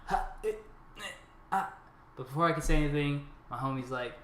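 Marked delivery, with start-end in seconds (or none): 0.1-1.7 mock tongue-tied stammer. Acts out being too scared to answer.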